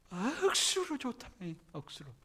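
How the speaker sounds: slow playful Gyeongsang saying; a hint of Gyeongsang accent; Gyeongsang dialect. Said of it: "경상도 말로 뭐라 하죠?".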